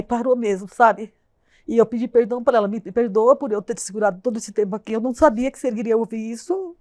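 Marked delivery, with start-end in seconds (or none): 2.7-6.7 crying as she asks forgiveness; real crying. Real, not acted. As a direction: voice breaking into tears while apologizing. Tearful apology to her late mother.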